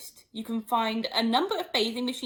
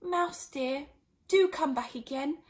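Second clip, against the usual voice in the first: soft calling; 5 semitones higher than usual. Acted. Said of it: "she called softly after it".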